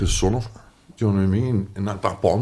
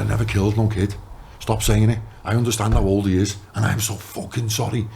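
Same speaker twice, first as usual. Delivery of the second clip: snapped; 5 semitones higher than usual. Retold or imitated. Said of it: "it just snapped".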